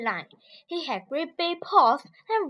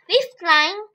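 higher, light rabbit voice; 6 semitones higher than usual. Acted. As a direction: pipe up brightly. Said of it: "said clever rabbit".

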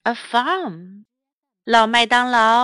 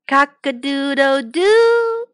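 rooster crow. Acted. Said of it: "went the cockerel".

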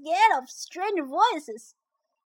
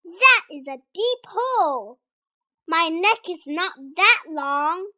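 doubtful big animal; 3 semitones lower than usual. Acted. Tuffy doubts reaching the frog.

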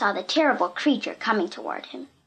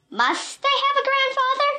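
much higher, bright and carefree; gaily. A narrator's reading. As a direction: toss it off gaily. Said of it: "said Pee-Pee gaily".

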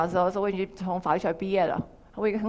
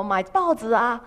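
ordinary talk, nothing marked

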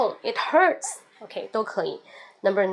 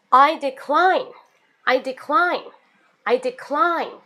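firm refusal; 3 semitones higher, 4 dB louder, slower than usual. Shown as a demonstration. Teacher showing a strong refusal, firm. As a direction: decline stressed, falling, final. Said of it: "decline是非常强烈的一个拒绝".

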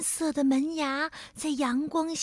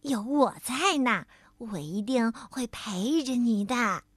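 soothing softly; 2 semitones lower than usual. Acted. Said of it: "跳跳安慰他".

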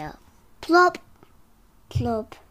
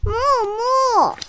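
excited begging; 10 semitones higher, 6 dB louder than usual. Acted. Character begs excitedly.

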